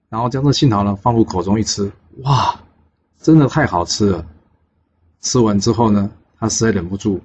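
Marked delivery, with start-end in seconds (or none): 2.2-4.3 mildly acted wonder at a delicious taste; delighted amazement. Boy savouring a magic apricot, mildly amazed.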